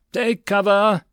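urgent battlefield bellow; sergeant's roar. A narrator's reading. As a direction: roar the order over gunfire. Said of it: "the sergeant roared".

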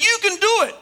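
high, projected call into the distance. Retold or imitated. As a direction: call out encouragement to raise an echo. Dad calls out to show echo.

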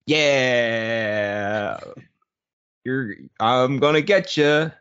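slow, drawn-out wrestler imitation; lightly voiced wrestler catchphrase with a long yeah; Macho Man Randy Savage. Older coworker attempting a wrestler impression, lightly imitated. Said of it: "Macho Man Randy imp-, Savage impression".

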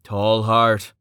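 firm cautioning call of a name; restrained warning. Acted. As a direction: warn him off with one word. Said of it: "Samson warned".

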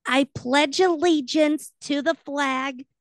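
put-on high, slow earnest old lady; reciting like a dotty old aunt; Aunt Bethany. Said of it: "I were Aunt Bethany".

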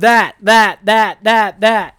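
loud, punched-out repeats of "That"; joking rapid repetition. Pretend. Taking "say that five times fast" literally, punchy repetition. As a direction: hit every "That" equally hard. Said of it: "Say that five times fast".

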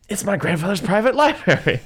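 high, thrilled discovery; excited high voice. Retold or imitated. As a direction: gasp then blurt it out high.

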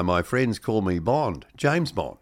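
put-on slow line with a light Kiwi accent. Presenter redoing the Bond line in a mild Kiwi accent. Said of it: "in a more Kiwi accent".

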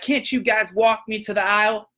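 hammed-up demanding shopper; entitled customer. Angry customer demanding an escort to the aisle, mock whiny. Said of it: "She's like".

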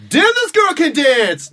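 high, slow, amazed admiration; mock wowed onlooker; impressed exclamation. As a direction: gush like a stunned admirer. Retelling a guy admiring her dance.

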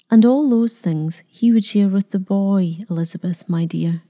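put-on gentle old vicar, easing down softly. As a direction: soothe her kindly. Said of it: "he said softly".

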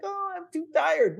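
high, put-on whine of a tired champion; mock whiny tired voice. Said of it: "you're like".

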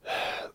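quiet breath out; sigh. A narrator's reading. Sergeant collecting himself after snapping, soft sigh. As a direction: let out a steadying sigh. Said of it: "took a breath".

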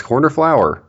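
high, impatient order-taker voice; bored cashier repeating the question; impatient drive-thru worker. Acted.

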